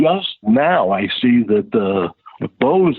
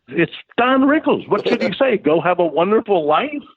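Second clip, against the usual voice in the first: teasing; 8 semitones higher than usual. Retold or imitated. Teasing explanation to upset friend.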